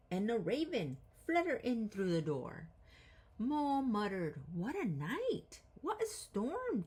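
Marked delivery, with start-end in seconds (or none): 4.5-6.8 high twittering bird voice; twittering wren. Acted. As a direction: chirp it like a little wren. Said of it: "twitters wren".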